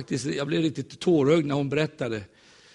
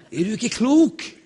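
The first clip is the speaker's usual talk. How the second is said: slow, higher disbelieving outburst; incredulous retort; 7 semitones higher, slower than usual. Retold or imitated. Preacher scoffs at coworker's gift idea, incredulous. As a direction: drag it out in mock disbelief.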